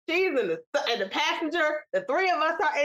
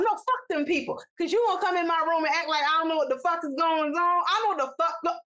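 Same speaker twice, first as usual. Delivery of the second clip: mock defiant cussing, slightly raised pitch; retold angry retort; 2 semitones higher than usual. Aunt cussing back at her son, retold defiance. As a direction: imitate an aunt refusing to back down.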